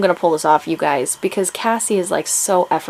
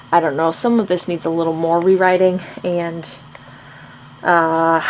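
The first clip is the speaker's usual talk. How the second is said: ordinary talk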